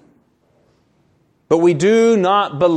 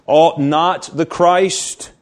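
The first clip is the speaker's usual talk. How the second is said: "Ought" drawn out slowly with weight; slow down and lean into "Ought"; emphasis on ought; much slower than usual. Shown as a demonstration. Preacher stressing "Ought" to the congregation, slowly. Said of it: "The emphasis here".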